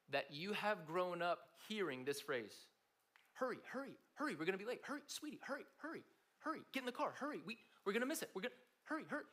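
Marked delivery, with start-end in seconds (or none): 3.3-9.2 high, urgent mock mum hurrying a child; pushy parent rushing her toddler out the door. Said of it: "in that tone with enough emphasis".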